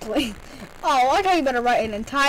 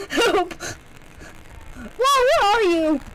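calling from far away; 7 semitones higher, slower than usual. Real, not acted. Calling out in game.

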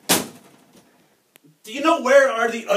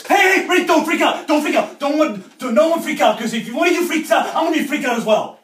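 panicky pleading; 5 semitones higher than usual. Pretend.

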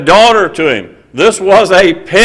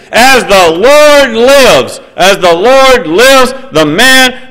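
high, loud, slow vow of fury; David's angry oath; 8 semitones higher, 5 dB louder, slower than usual. Acted. King David swearing against the rich man, with a loud, high fury. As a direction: swear it out in outrage, slow and heavy. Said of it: "and he said to Nathan".

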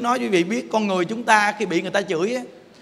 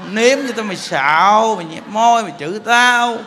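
mock accusing. Accuser insisting the silent chanter cursed them, mock accusing.

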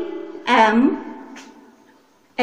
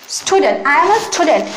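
slow model sentence; much slower than usual. Shown as a demonstration. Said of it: "সাথে সাথে বলেন".

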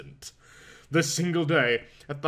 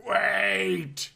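raised, strained call; grated plea; 5 semitones higher than usual. Acted. Injured Bruce calls the nurse back with a raised strained voice. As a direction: force it out of a sore throat. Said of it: "he grated".

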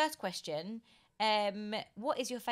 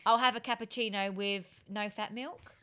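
light attempt at Scouse; a hint of a Liverpool accent; 2 semitones higher than usual. Shown as a demonstration. Host setting a line for the guest, Liverpool accent. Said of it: "Okay, right, Liverpool".

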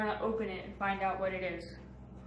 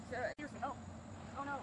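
distant cries for help; 3 semitones higher, 4 dB quieter, much faster than usual. Acted. Cries from far below after fall.

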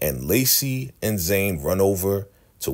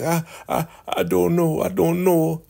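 very high flustered stammer; high panicked squeak, caught lying; 10 semitones higher than usual. Retold or imitated. Elder Mother flustered and caught.

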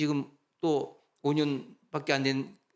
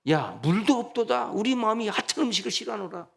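devil's voice; 5 semitones higher than usual. Retold or imitated. Satan tempting the grumbling people, lightly voiced and sly. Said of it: "사탄 마귀가 그렇게 역사해요".

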